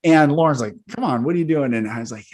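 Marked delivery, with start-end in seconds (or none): 0.9-1.7 higher-pitched imitation of a wife objecting; raised-pitch reproach; retold protest. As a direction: act out an exasperated partner stepping in. Acting wife's objection to his scolding.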